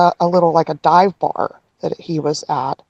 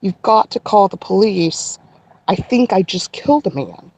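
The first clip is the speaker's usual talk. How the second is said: measured retelling of an urgent plea; calmed down, deliberate. Retold or imitated. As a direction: hold the panic back and say it carefully. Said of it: "got myself to say it slowly enough".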